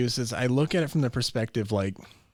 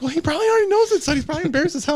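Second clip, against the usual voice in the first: loud dad voice; 8 dB louder, much faster than usual. Retold or imitated. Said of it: "he's like".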